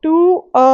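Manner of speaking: to a with the a held and stressed. Shown as a demonstration. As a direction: make a the strong beat after to. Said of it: "a पे ज़्यादा focus जाएगा". (to a में a पर ज़्यादा ज़ोर)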